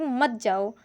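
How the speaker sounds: मत जाओ as its own unit after a break; separate phrase after comma. Shown as a demonstration. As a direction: join मत to जाओ, apart from what came before. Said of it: "फिर comma लगा है".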